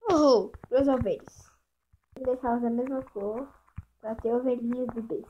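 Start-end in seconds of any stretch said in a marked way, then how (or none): 0.1-1.5 cheering. Real, not acted. Cheering at two sheep.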